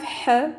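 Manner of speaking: "h" sharp, constricted in the throat. Shown as a demonstration. Teacher showing Arabic sounds, "h" said sharp. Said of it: "which is a sharp h".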